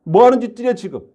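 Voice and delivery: Jesus scolding his disciples, lightly acted anger; angry rebuke. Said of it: "화를 내셨어요".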